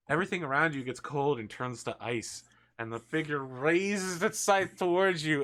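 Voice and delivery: suspenseful scene-setting in spaced phrases; game master narration. Acted. Game master describes a cold figure marching at a player, suspenseful narration. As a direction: build toward the scythe's stroke.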